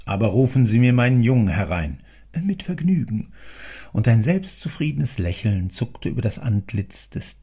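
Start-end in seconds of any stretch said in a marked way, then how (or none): 0.1-2.0 louder, fast command; brisk order. Acted. Boss gives a new order. 2.4-3.3 higher, pleased reply; eager clerk. Acted.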